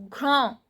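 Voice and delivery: "Grand" ending in a nasal "on"; nasal A, silent S. Shown as a demonstration. Teacher showing nasal sounds, "Grand" as "gron". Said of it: "S is not pronounced. A nasal sound".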